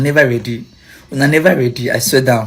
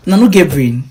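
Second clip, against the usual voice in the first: scolding; 2 semitones higher, 5 dB louder than usual. Real, not acted. Scolding ranting commenters.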